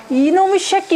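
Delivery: parent's hammed-up outburst; mock angry scolding. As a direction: act out a parent snapping at a child. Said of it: "어떤 가면을 쓰냐면은".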